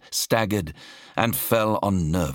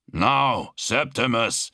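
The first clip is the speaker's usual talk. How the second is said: restrained yell, pitched up; urgent higher-pitched call; 7 semitones higher, slower than usual. A narrator's reading. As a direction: call out the order, raised in pitch. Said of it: "Sirian yelled".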